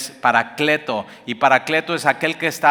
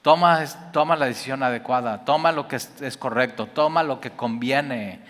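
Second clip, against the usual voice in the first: loving plea. Retold or imitated.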